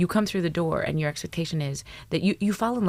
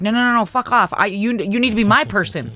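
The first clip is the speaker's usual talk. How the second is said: high, loud exasperated shouting; shrieking mock rant; mock furious yell; 8 semitones higher, 12 dB louder than usual. Acted spouse yelling back.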